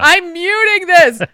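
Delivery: high, loud, slow resolve; decisive. Retold or imitated. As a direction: declare it with finality. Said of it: "I was just like".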